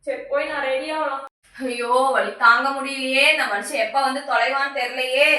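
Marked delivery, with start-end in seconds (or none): 1.7-5.3 pained groaning. Acted. Wife in unbearable stomach pain.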